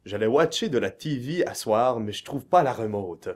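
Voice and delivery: accent Radio-Canada. Shown as a demonstration. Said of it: "Prenez un accent de Radio-Canada".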